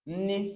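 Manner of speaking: "N" as an ordinary n, tongue at the front; "N" as a normal n, without the velar ng; plain n sound. Shown as a demonstration. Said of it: "It is not like normal".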